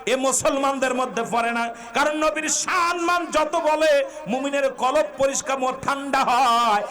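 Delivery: high, ringing sermon chant; impassioned preaching. Real, not acted. Preacher rousing the faithful about love of the Prophet, impassioned preaching. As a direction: preach at full force, drawing out line ends.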